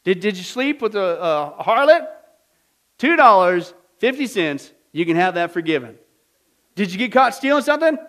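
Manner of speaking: loud, high auction patter; auctioneer. Retold or imitated. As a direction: sell it like an auctioneer. Pardoner auctioning forgiveness prices.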